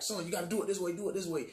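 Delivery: mock-exasperated father drilling it in; imitating dad pushing his son to get it right; insistent dad. Dad instructing son at the wheel.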